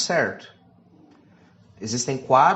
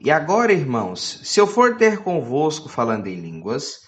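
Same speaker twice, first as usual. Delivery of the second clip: louder, declaiming Bible reading; scripture reading; 4 dB louder than usual. Acted. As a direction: proclaim the verse to the church. Reads scripture aloud to congregation.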